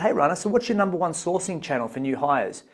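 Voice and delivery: mock-stiff scripted question; stiff formal version. At an event Dave asks Rana stiffly, mock formal. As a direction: read it out like a rigid script. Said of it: "Dave probably wouldn't talk like that".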